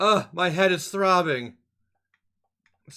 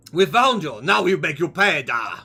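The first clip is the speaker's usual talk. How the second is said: hammy Russian sailor voice; bad Russian accent; 2 semitones lower than usual. Sailor threatens the captured stowaway, hammed-up Russian accent. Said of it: "pretend bad Russian accent".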